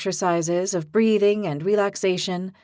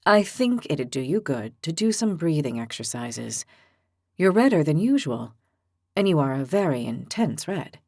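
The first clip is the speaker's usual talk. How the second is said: low, measured, reasonable voice; calm gentle giant; 5 semitones lower than usual. Acted. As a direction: patiently talk her down. Evo teases gently.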